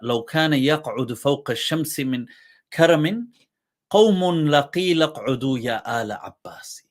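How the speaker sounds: rushed, half-whispered poem recitation; قراءة شعر همساً; recited verse. Acted. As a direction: breathe the verse out fast. Reciting Arabic praise poem.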